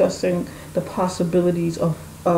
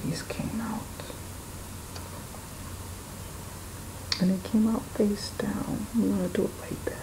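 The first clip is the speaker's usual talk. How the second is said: whispering; 2 semitones higher, 12 dB quieter, faster than usual. Real, not acted. Whispering while laying cards.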